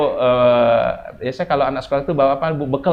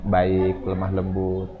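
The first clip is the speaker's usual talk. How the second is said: softer, lower, gentle delivery; 6 semitones lower, 4 dB quieter, much slower than usual. Shown as a demonstration. Preacher urging mothers to speak kindly, gently. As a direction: ease down into tenderness. Models gentle wording for advice.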